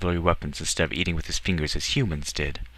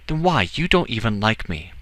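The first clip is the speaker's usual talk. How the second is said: lightly voiced boy, pitched up; young Edward, protesting; 5 semitones higher, 4 dB louder than usual. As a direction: protest as a puzzled boy, a bit high.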